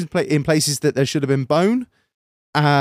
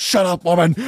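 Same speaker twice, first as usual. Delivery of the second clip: mock fifties husband; 2 semitones higher than usual. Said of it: "like some old fifties husband".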